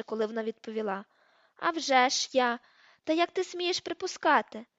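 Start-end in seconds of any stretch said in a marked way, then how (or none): 1.6-4.7 обурено, голосно й високо; обурся на образливе припущення; роздратовано. A narrator's reading. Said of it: "а голос зазвучав роздратованіше". (роздратований вигук)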